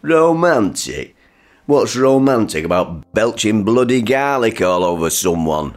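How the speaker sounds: high, indignant outburst; scornful disbelief. Acted. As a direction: throw the word back in outraged disbelief. Father scoffs at wife's claim.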